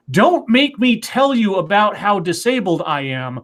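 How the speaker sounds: mock-indignant summary, lilting then dropping; mocking recap. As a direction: parody the article's lecturing.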